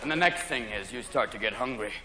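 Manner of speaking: very low, hushed delivery; low mock taunt. Comic taunting the hungry stoner, low hushed voice. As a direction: drop deep and soft.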